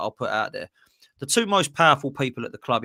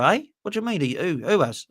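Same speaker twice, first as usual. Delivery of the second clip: mock surprise; 5 semitones higher than usual. Acted meeting, confused recruit.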